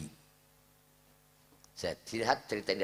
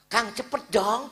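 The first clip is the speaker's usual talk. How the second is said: high, loud, wheedling woman's voice; coaxing woman; 14 dB louder than usual.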